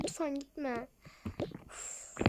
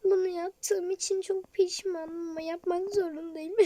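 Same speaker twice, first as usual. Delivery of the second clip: crying; 3 semitones higher than usual. Acted. Leaving her friends regretfully.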